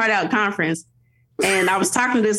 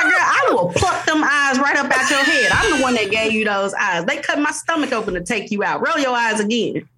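higher, hammed-up stern mom; mock mom threat; 5 semitones higher than usual. Mom to toddler rolling her eyes, hammed-up threat.

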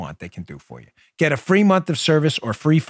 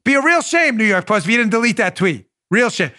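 higher mock wiseguy threat; mob shakedown; 6 semitones higher than usual. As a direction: threaten with a grin. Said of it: "So Twitter's doing the".

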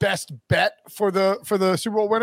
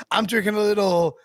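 a playful shouted boast, imitating Wilson; mock Wilson shout; 4 semitones higher than usual. Host mimicking Wilson bragging about tequila, mock shout. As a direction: ham up a tipsy brag, calling it out. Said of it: "He's like".

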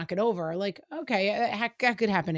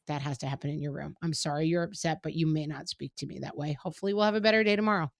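calm and neutral; 3 semitones lower, faster than usual. Retold or imitated. Mom calmly sending her upset son to his room. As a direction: set the limit without any heat. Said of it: "keep it neutral and calm".

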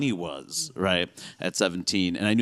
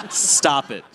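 raised-pitch comic telling-off; mock exasperation; 4 semitones higher than usual. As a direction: scold them in playful disbelief. Acted rebuke to sing-songy speaker.

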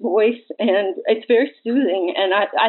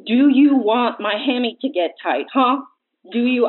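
imitating an enraged husband, slightly higher; mild mock yell; 4 semitones higher than usual. Sister quoting her enraged brother at the wedding, mild mock yell. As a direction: retell his yelling at half strength. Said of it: "he kept yelling".

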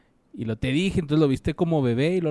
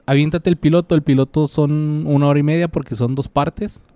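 emphatic urging; 9 dB louder than usual. Real, not acted. Urging to try pilot.

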